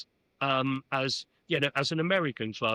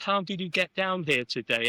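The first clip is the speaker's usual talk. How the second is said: English gentleman voice, slightly higher; Sir Chips Keswick; 4 semitones higher than usual. Retold or imitated. Arsenal chairman questioning his guest, English gentleman voice. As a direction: imitate a genteel English chairman asking politely. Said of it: "spoke in a very English gentleman voice".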